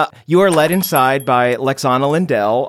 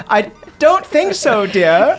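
mild motherly tease; 9 semitones higher, 3 dB louder, slower than usual. Acted. Mother teasing her grown kid.

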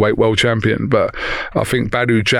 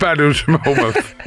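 laughing; 5 semitones higher than usual. Real, not acted. Repeats the slogan with a laugh.

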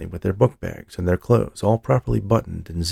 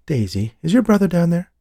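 calling downstairs; 11 semitones higher, 3 dB louder than usual. Acted. Calling down the stairs.

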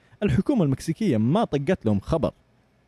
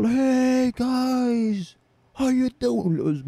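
imitating the Mexican guy, higher and chummy; mocking the big bald Mexican greeting them in the shop; 9 semitones higher, much slower than usual. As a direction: greet them like an overfriendly stranger walking in. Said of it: "دخل".

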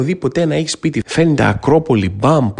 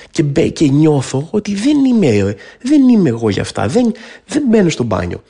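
sheepish; 2 semitones higher than usual. Real, not acted. Awkward in marble bathroom.

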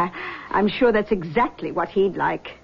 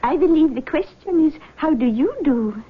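lightly voiced mystic, higher pitch; seance medium; 5 semitones higher than usual. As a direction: greet them like a gracious clairvoyant. Medium speaks to skeptical girl.

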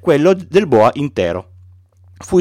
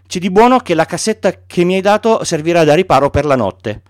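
put-on a small boy insisting on his sheep; gently voiced child asking for a sheep; Little Prince; 3 semitones higher than usual.

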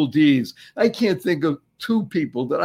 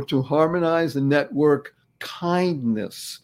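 slow, deliberate "Thanks stands for"; slow acronym; slower than usual. Shown as a demonstration. Host explaining his acronym, slow. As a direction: spell out the acronym slowly. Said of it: "these two words are".

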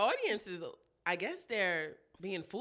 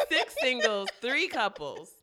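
laughing through the correction; 6 dB louder than usual. Real, not acted. Cohost correcting herself with a laugh. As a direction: giggle out the numbers.

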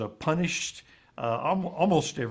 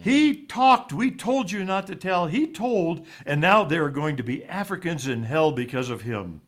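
higher, louder condemning preacher voice; house father's condemnation; 4 semitones higher, 4 dB louder than usual. Retold or imitated. House father denounces the boy before the other children, accusing. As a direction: shame him in front of everyone.

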